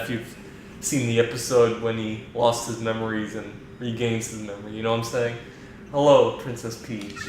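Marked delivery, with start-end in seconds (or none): 5.9-7.2 flat, even computer voice; monotone computer voice. Acted. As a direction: speak like a calm AI. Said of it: "just that monotone voice".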